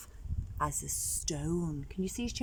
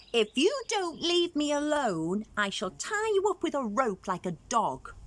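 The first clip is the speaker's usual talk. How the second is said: shouting angrily; 7 semitones higher than usual. Acted. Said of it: "Chameleon shouted angrily".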